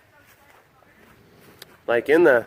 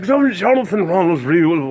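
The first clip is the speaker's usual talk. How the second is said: hammed-up publisher address; 3 dB louder than usual. Publishers addressing Tolkien by name, publisher voice. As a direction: put on an effusive publisher. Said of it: "that's the publisher voices".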